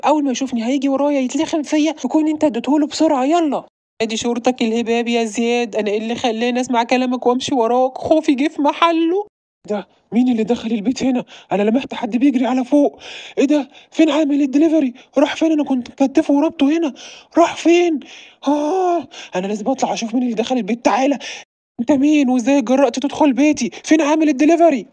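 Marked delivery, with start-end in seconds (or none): 4.0-9.3 exasperated blaming. Acted. Blaming friend for bad idea. 13.4-24.9 loud, higher, furious shouting doctor; angry mad doctor. Acted. Mad doctor finds captive gone.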